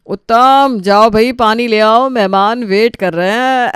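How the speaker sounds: loud sarcastic command; mocking order. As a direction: order him about to humiliate. Brother orders him mockingly.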